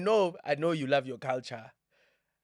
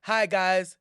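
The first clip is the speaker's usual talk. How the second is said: raised, louder mock show invitation; presenter's call-out; 4 semitones higher, 7 dB louder than usual. Host imitating the music show's invitation, upbeat call-out. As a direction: hail the contestants brightly.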